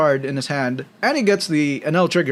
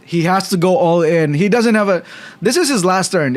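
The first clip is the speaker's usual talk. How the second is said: esports caster; 4 semitones higher, 4 dB louder than usual. Real, not acted. Final turn hype.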